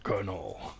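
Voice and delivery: half-managed impression of a raspy soldier; Solid Snake. Streamer tries out a voice for his character, failed Solid Snake impression. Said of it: "David Hayter as Solid Snake, that voice".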